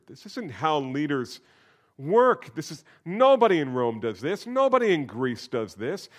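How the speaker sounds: high, loud rising insistence; preaching climax. Acted. Pastor preaching to the congregation about leaders, rising insistence. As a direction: build the nobody lines to a pitch.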